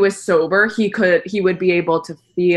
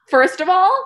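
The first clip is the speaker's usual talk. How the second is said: high whispered gasp of disbelief; stunned whisper; 10 semitones higher than usual. Real, not acted. Whispering in shock after reading the ex's roast. Reacting to the listener letter.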